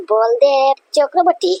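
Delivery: slow, stunned repeat of the name; stunned disbelief. Acted. Father stunned, repeating the rival's name to his servant. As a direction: let the name sink in, drawn out slowly.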